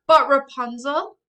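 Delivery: high, loud cry of protest. Acted. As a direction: cry out in alarm. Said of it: "I cry".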